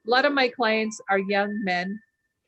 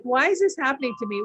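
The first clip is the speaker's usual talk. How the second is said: higher, louder, fast mock complaining; imitating people who always moan; whiny victim; 4 semitones higher, 4 dB louder, faster than usual. Mocking how most people whine about the weather. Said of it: "most people will be like".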